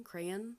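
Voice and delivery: Crayon said "CRAY-un", weak second syllable; alternative pronunciation. Shown as a demonstration. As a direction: Crayon with the ending reduced to "un". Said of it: "How else do you say it?".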